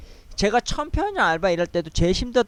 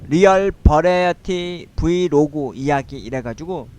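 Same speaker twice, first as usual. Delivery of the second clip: ordinary delivery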